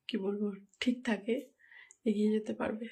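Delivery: sore throat, straining to talk; hoarse, voice nearly gone. Real, not acted. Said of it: "গলার অবস্থা খুবই খারাপ".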